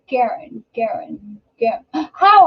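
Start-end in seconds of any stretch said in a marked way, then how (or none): 1.9-2.5 surprised gasp. Real, not acted. Realises who Karen means.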